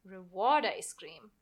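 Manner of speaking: slow, thoughtful father repeating her words; a dad weighing his daughter's wish; musing dad. Acted. Father considering daughter's request.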